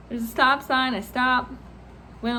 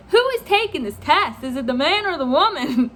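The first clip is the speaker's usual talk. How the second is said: mock-baffled demand to know; retold exasperation. Driver waiting behind the seat-switchers, exasperated.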